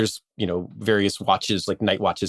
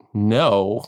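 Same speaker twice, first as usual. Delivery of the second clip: whiny begging; 2 semitones higher than usual. Retold or imitated. Infantry begging to join party.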